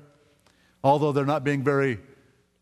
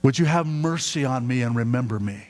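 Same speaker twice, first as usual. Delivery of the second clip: humbly asking. Retold or imitated. The thief humbly asks Jesus to remember him. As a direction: ask for mercy without demanding. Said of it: "Humbly saying".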